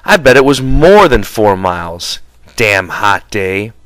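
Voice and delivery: angry. Acted. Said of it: "He said angrily".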